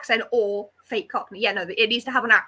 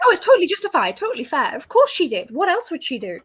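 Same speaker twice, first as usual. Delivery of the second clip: brisk mock justification, punched louder in places; lively, raised-pitch retold defence; emphatic defending; 4 semitones higher, 5 dB louder than usual. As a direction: imitate someone insisting she was fully justified. Acted quote excusing a shooting.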